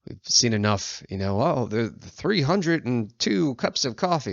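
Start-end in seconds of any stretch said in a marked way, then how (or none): 1.4-4.3 mock cute brag. Mocking cliche coffee count.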